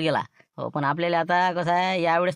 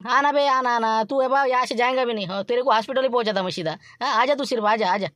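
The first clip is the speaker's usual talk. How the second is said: Laxman's thin voice; 5 semitones higher than usual. Pretend. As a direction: squeeze the voice thin and high to pass as someone else. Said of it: "बरोबर बारीक आवाज काढतो".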